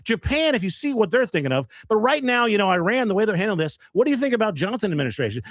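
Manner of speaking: mock a pseudo-intellectual holding forth at a bar; pontificating douchey guy. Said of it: "he's just pontificating about whatever".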